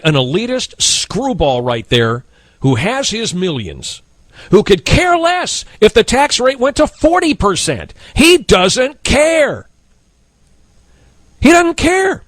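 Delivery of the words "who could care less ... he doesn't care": indignant host repeating that he doesn't care; rising outrage. Real, not acted. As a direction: pitch climbing higher on each repeat. Host rants about elitist Romney.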